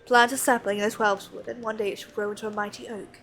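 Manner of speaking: put-on wise old guildmaster. A hint of an old master telling a parable to the young noble. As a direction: spin the parable gently, like an old mentor.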